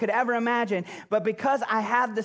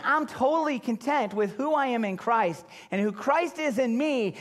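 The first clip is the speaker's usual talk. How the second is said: higher, brighter quoted claim; quoted self-talk, pitched up; raised quote voice; 5 semitones higher than usual. Shown as a demonstration. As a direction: lift it as someone else's words. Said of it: "and say".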